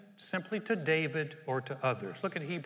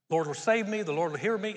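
bold, louder proclamation; confident declaration; 2 semitones higher, 5 dB louder than usual. Shown as a demonstration. Preacher voicing David's confident faith to the church, bold declaration. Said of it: "listen for the tone behind it".

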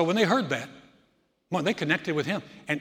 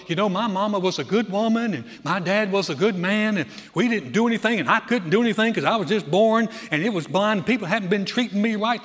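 defensive rant; 3 semitones higher, 5 dB louder than usual. Retold or imitated. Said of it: "launched into a".

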